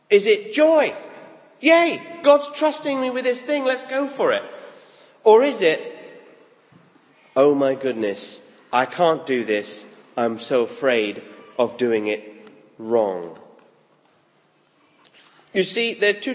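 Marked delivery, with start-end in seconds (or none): 1.6-4.4 higher, bright mock cheer of delight; mock joyful cheer. Mock joyful response to God. 7.4-13.4 mock panic. Mock fearful response to God.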